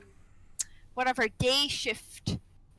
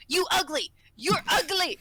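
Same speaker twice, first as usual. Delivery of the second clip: raised, insistent mock Asian-accented insult; imitated Asian accent; 6 semitones higher, 4 dB louder than usual. Nurse retelling patient insulting her, imitated Asian accent. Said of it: "when he says it in that accent".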